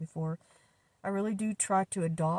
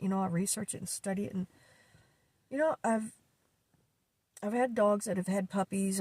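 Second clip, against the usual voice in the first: upset through tears; 2 semitones higher than usual. Real, not acted. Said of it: "I feel angry with myself".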